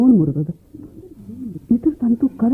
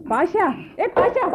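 slow drawn-out call, higher; 8 semitones higher, 5 dB quieter, slower than usual. Acted. Lady calling the dozing repairman Pasha, slow drawn-out call. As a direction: stretch his name out to wake him.

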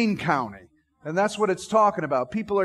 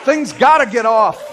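preaching shout; 6 dB louder than usual. Real, not acted. Preacher's exclamation.

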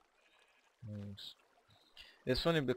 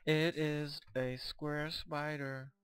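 deadpan wonder; 5 semitones higher, much slower than usual. Real, not acted. Mock awe at spider.

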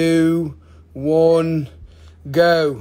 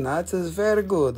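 light, hammed-up Italian accent on "very good"; a quick playful Italian accent, barely put on; mock Italian accent; 3 semitones higher than usual. Host joking about an Argentina stone in a mock Italian accent. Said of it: "my Italian accent".

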